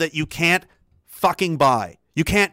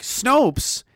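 mocking scorn; 5 semitones higher than usual. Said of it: "I was like".

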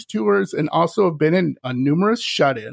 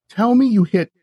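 louder, higher urgent demand; 5 semitones higher, 5 dB louder than usual. Retold or imitated. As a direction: retell an insistent plea for confirmation. Retells his alarmed question to employee.

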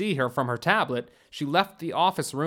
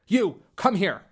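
higher-pitched summoning order; curt command; 5 semitones higher, 4 dB louder than usual. A narrator's reading. Churtish summoning a soldier standing by the prisoner, commanding. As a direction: call a soldier over with authority.

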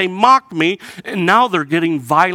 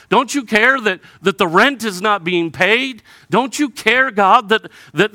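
desperate plea; 5 semitones higher than usual. Retold or imitated. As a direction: beg God to care. Desperate pleading to God.

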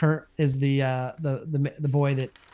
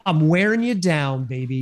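Urkel line. Retold or imitated. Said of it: "What's the line?".

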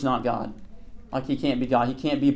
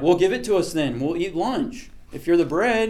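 lightly acted, higher-pitched crowd voice; mock eager crowd; 4 semitones higher than usual. Hungry crowd asking Jesus for lunch, mock eager. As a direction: press the simple, literal request.

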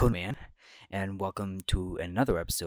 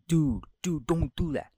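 pleading bodyguard; 5 semitones higher, 4 dB louder than usual. Retold or imitated. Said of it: "bodyguards who were with him were like".

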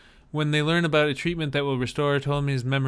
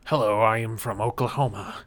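fake American accent; 3 semitones lower than usual. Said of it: "Liam Neeson trying to do his American accent".

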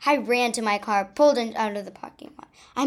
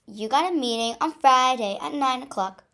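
singsong; 3 semitones higher, 5 dB louder than usual. Acted. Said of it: "Diane sang".

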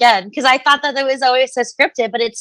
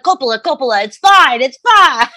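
put-on Italian accent. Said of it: "Italian accent".

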